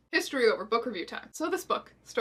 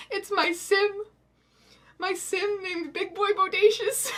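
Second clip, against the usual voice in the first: laughing reveal; 9 semitones higher, slower than usual. Real, not acted. Realizing Charlene looks like her sim.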